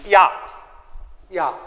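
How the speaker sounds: short a as in apple, said as ya; short a sound. Shown as a demonstration. Teacher showing kids the short vowel sound. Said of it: "A will sound like".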